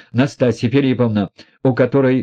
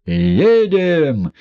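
roared; 7 semitones higher than usual. A narrator's reading. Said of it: "заревел Рогожин".

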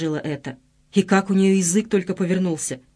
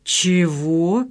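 stunned exhale. A narrator's reading. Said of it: "выдохнул ошеломлённый Белов".

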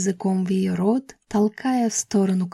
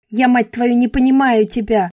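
louder cracking cry; voice breaking, shouting; 3 semitones higher, 4 dB louder than usual. A narrator's reading. Grace screams at Adam that she cannot understand him, voice cracking. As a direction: scream it at him until your voice gives. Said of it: "Я срывала голос, крича на него".

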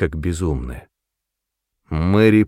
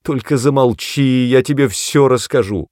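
begging; 5 semitones higher, 4 dB louder than usual. A narrator's reading. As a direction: hush her mother anxiously. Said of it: "умоляла Мэри".

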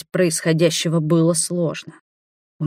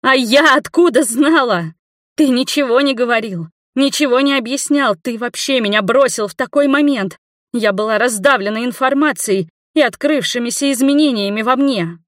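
high shout; 7 semitones higher, 4 dB louder than usual. A narrator's reading. Nina shouts her hurt back at Igor. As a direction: hurl it back at him.

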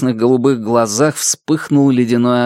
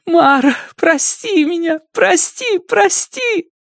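rising higher with each plea, howling; wailing; slower than usual. A narrator's reading. Girl howling apologies to her lost dog, wailing. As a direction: howl the apology in grief. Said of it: "Ада завыла".

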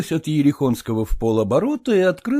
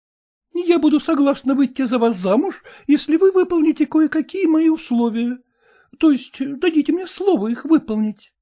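a hint of a brisk, frank young lady; slightly raised voice, talking down his formality; lightly voiced young woman; 13 semitones higher than usual. Young woman coolly tells her suitor to speak plainly.

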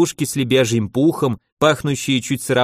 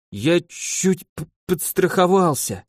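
higher, slow, stumbling on п- from chills; teeth chattering; 6 semitones higher, slower than usual. Acted. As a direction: shiver through the words. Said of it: "дрожал зубами от озноба Филипп".

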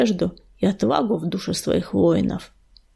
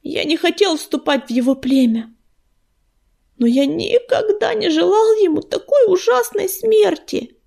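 pained, higher-pitched plea; anguished protest; 7 semitones higher than usual. A narrator's reading. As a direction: pitch climbing high in distress. Grieving son protests father's death.

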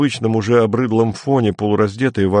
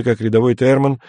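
ordinary delivery

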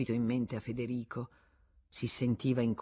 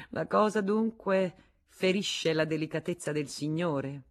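coldly; 3 semitones higher than usual. Acted. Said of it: "Ella replicò freddamente".

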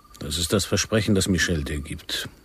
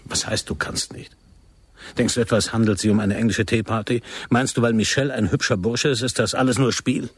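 scornful raised voice; angry rebuke; 5 semitones higher than usual. Acted. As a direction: lash out with contempt.

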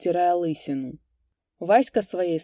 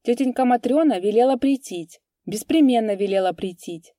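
put-on higher little girl voice; loud whisper in ear; 5 semitones higher, 6 dB louder than usual. A narrator's reading. Little girl passing a message to Kupriyan, childlike. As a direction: tell it eagerly as a child. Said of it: "громко сказала ему на ухо".

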